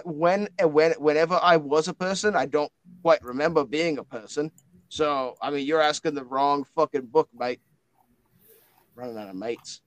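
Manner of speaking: put-on indignant matey book with Australian-style accent; blokey book, stumbling into a protest; Winston the blokey spirit book.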